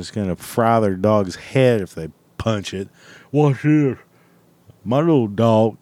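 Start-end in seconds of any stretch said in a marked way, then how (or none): 3.3-5.8 put-on redneck showing off his dog; mock redneck bragging to onlookers; redneck impression voice. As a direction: do a dumb, boastful redneck, punched up. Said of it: "boob redneck cocksucker out there".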